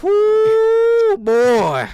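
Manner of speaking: very loud, high drawn-out whoo; loud reset holler; big whoop. Real, not acted. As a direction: let out a long, loud whoop. Regaining composure after tangents.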